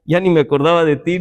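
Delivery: mock surprised Lord. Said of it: "Y Señor dice".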